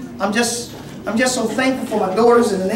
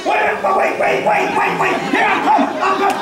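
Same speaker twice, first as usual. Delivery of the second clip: mock reluctant; 5 semitones higher than usual. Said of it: "they start pulling you".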